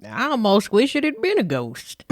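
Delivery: haunted farmer. Acted. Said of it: "And Billy Ray replied".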